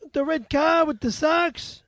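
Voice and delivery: put-on slow questioning Boston accent; drawn-out put-on Boston vowels. Confusing car and Sox, Boston accent. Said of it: "You do an amazing Boston accent".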